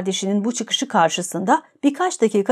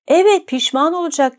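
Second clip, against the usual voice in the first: shouting; 7 semitones higher than usual. A narrator's reading. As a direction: yell it out across the room. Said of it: "diye bağırdı Rogojin". (yüksek perdeden bağırarak)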